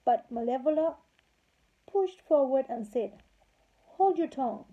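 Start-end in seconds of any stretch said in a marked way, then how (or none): 4.0-4.6 high, loud and rude; wicked fairy rudely silencing the queen; rude snap. A narrator's reading. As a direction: cut her off rudely, like a wicked old fairy. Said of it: "most rudely".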